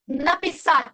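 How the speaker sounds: написать with its first A brought out; stress on first A. Shown as a demonstration. Teacher pointing out the first A, stressed NA in написать. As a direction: lean on the NA of написать. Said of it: "primera A".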